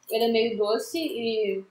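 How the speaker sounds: chewing while talking; speaking between bites; mouth partly full. Real, not acted. Seen 1: Right speaker brings chip to lips, chews between phrases early on.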